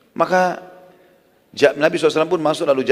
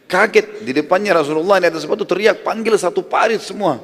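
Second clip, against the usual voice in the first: shocked; 7 semitones higher, 3 dB louder than usual. Acted. Jabir's shocked retelling of the shout.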